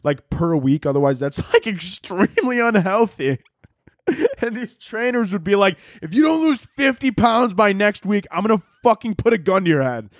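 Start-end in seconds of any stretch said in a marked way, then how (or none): 6.0-10.1 hammed-up drill-sergeant threat; mock trainer yell. Trainer threatening the contestant, mock yell.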